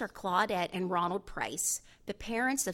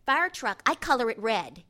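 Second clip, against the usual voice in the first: put-on higher, louder little-boy voice; excited young Jordan; 4 semitones higher, 8 dB louder than usual. A narrator's reading. Seven-year-old shows the lawyer his coloring, excited child voice. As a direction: show off like a proud small boy.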